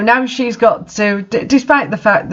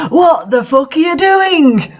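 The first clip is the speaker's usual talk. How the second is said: mock outburst; 9 semitones higher than usual. Someone bursts in on them.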